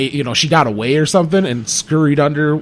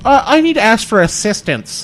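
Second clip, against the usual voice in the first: higher-pitched mock meek request; mock timid bystander; 6 semitones higher than usual. Man mocking a Best Buy patron, mock timid. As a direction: put on a helpless shopper asking staff.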